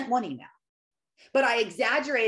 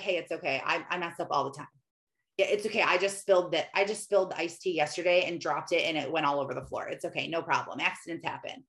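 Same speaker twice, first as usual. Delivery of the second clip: gentle reassurance; 4 semitones lower, faster than usual. Pretend. Parent reassuring a child who messed up.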